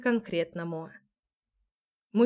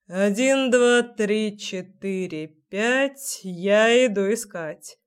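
menacing count; much slower than usual. Acted. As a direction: count like a predator playing hide and seek. Menacing hide-and-seek count.

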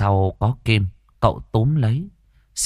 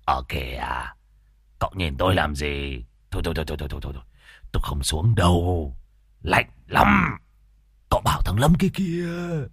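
startled refusal; 3 semitones lower, 3 dB quieter than usual. Acted. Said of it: "làm cho Môn Phọt giật mình".

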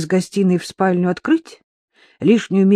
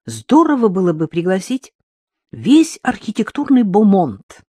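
dreamy; 3 semitones higher, 4 dB louder than usual. A narrator's reading. Daughter backing her father about inviting the architectural elite, dreamily. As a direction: savour the grand idea, lingering on it. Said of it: "произнесла она мечтательно".

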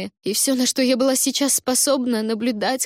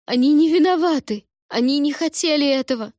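tearful moaning plea; 6 semitones higher, 4 dB louder than usual. A narrator's reading. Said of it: "Жалобно сквозь слёзы простонала я".

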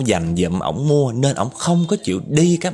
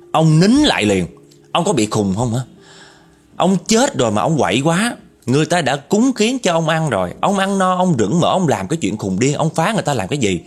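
scolding the ghost; 2 semitones higher than usual. Retold or imitated. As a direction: tear into the ghost like an angry youngster. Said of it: "Tôm nó chửi cái vong kia quá trời luôn". (mắng con ma, giọng cao và gắt)

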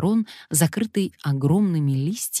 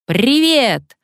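higher, louder parrot bark; barked greeting; 8 semitones higher, 6 dB louder than usual. A narrator's reading. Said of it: "гаркнул попугай".

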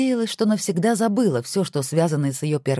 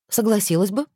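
curt retort; 5 semitones higher than usual. Acted. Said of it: "отрезала Александра".

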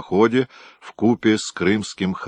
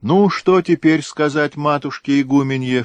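higher, louder playful teasing; jokingly; 8 semitones higher, 4 dB louder than usual. A narrator's reading. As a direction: tease the daughter gently. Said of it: "шутливо спросил Никита дочь". (отец шутливо поддразнивает дочь, выше и громче)

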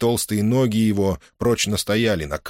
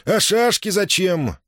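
angry questioning; 11 semitones higher, slower than usual. Acted. Angry interrogation.

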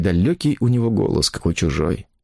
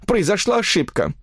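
higher, weary pleading voice; tired plaintive woman; 12 semitones higher than usual. A narrator's reading. Woman pleading with the phone operator, tired and plaintive. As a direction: sound resigned and almost whining. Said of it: "голос женщины звучал устало, обречённо, почти жалобно".

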